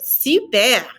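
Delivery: "super" with French throaty R at end; model word. Shown as a demonstration. Teacher models super for students to repeat. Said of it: "répétez".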